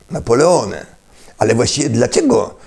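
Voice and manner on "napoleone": Napoleone said the Italian way, with a final e; Italian Napoleone, ending on a clear e; Italian pronunciation. Shown as a demonstration. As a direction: pronounce Napoleone as an Italian would. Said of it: "Po włosku".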